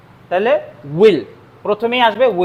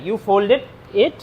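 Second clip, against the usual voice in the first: slow dictation; much slower than usual. Shown as a demonstration. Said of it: "slow dictation to students".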